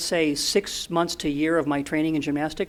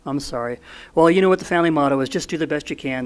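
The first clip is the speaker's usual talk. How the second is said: lightly imitated matter-of-fact dad, brisk and louder on the motto; mock-warm but businesslike brush-off; a hint of a kind, no-nonsense father ending the call; dry engineer dad; 3 dB louder than usual. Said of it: "in his very warm and friendly mechanical engineering tone of voice".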